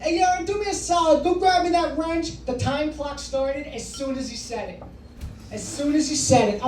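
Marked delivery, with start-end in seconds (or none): 0.0-2.4 higher, casual dad voice; lightly voiced father asking his son for a wrench; impression of dad. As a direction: play the pushy father asking a favor. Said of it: "He's like".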